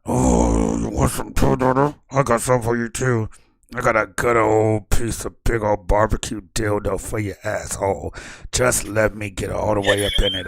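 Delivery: a low, leering taunt, lightly voiced; menacing voice in head. GM voices a menacing voice in her head, lightly voiced. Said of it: "so you hear in your head".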